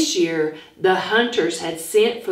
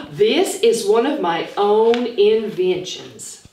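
proud smiling Hi-Hat. Acted. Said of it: "with a big smile".

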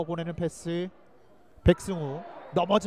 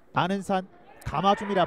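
excited call; 2 semitones lower than usual. Real, not acted. Live free kick call.

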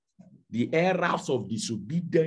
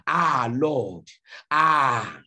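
mock complaining believer; 4 dB louder, slower than usual. Acting a believer's complaint to God.

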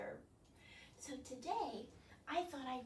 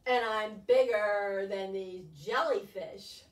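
proud squid; 4 semitones lower, 6 dB louder, slower than usual. Acted. Squid boasts in story.

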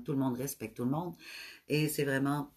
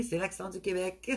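laughing; 3 semitones higher than usual. Real, not acted. Viewer praises her accent.

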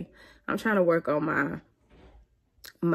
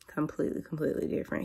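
whispered aside; 6 dB quieter, faster than usual. Real, not acted.

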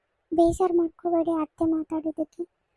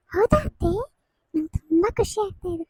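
happy surprise; 2 semitones higher than usual. Acted. Delighted news son coming.

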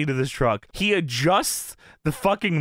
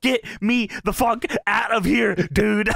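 mock panicked shout; 5 semitones higher, slower than usual. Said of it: "Christian says".

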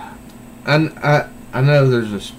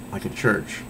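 whispered aside; 4 semitones lower, 8 dB quieter than usual. Real, not acted. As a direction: whisper it under your breath. Repeats church, then whispers it.

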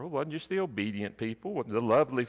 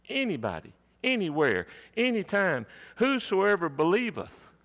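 climbing higher and louder word by word; building preaching; 7 semitones higher, 4 dB louder than usual. Real, not acted. Preacher to congregation, rising to a climax. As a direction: build the list to a peak.

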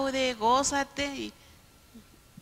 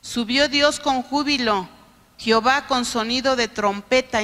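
proclaiming; 6 dB louder than usual. Acted. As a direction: ring out the verse like a trumpet. Proclaiming scripture to congregation.

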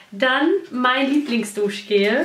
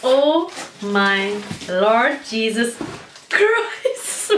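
amazed; 3 semitones lower, much slower than usual. Real, not acted. Sees the parcel's contents.

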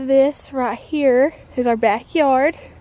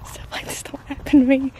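giddy disbelief. Real, not acted. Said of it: "if I sound, like, giddy".

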